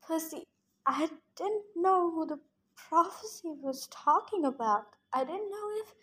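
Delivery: a touch of hopeless faltering, trailing off; faltering hopelessly. Acted. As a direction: let the words break off, unsure. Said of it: "she faltered hopelessly".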